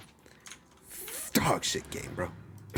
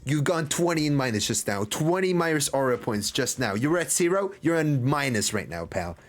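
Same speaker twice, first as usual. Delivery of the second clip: excited rant; 5 semitones higher than usual. Real, not acted. Ranting at character, aura points.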